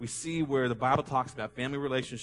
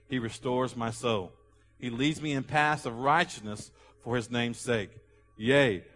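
measured, solemn scripture recitation; psalm reading; 3 dB louder than usual. Acted. Pastor leading the church through Psalm twenty-three, solemnly. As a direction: read it aloud like a prayer. Congregation reads Psalm 23 aloud.

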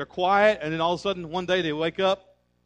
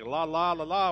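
mock gibberish la la. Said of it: "just sound like".

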